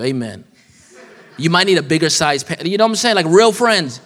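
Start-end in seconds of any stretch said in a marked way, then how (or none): 1.3-4.0 rising, pumped-up preacher energy; excited preaching. Real, not acted. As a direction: fire up the congregation on real friends. Preacher builds to high energy.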